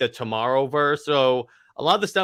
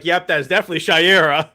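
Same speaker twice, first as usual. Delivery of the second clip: knowing recognition; 3 semitones higher, 5 dB louder, faster than usual. Retold or imitated. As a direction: say it like you knew it. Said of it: "I'm like".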